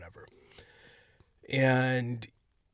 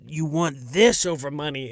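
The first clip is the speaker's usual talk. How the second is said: higher, insistent salesman voice, louder at the end; pushy hustler; 3 semitones higher, 4 dB louder than usual. Retold or imitated. Comic insisting tickets beat money, higher and pushy. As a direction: sell it like it's worth more than cash.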